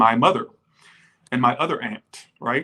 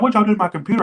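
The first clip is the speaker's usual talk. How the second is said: indignant aunt; 6 semitones higher, 6 dB louder, much faster than usual. Retold or imitated. Aunt finds her computer messed up.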